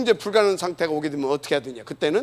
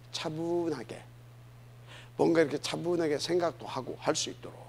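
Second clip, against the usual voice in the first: calm; 8 dB quieter than usual. Shown as a demonstration. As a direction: say it quietly, as if settling someone down. Describing being made calm. (차분하고 조용하게)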